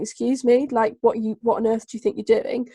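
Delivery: mildly acted indignant "excuse me"; indignant challenge. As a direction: challenge them, as if affronted. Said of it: "rather than saying".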